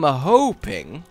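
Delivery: "hoping" drawn out playfully; extended word. Shown as a demonstration. Player wishing for a good item, "hoping" slightly extended. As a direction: stretch the first vowel of "hoping". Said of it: "better when you just slightly extend the word".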